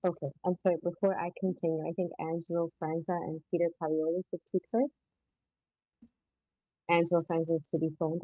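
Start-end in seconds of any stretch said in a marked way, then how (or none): 0.1-4.9 muffled, as if hand over mouth. Real, not acted. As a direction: speak through a muffled mic. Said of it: "Sorry, you're a little muffled".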